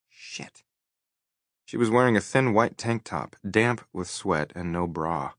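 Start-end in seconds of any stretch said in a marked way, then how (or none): 0.1-0.6 a startled whispered swear under her breath; whispered curse. A narrator's reading. Brenna caught braless, whispering a curse to herself. Brenna notices his gaze.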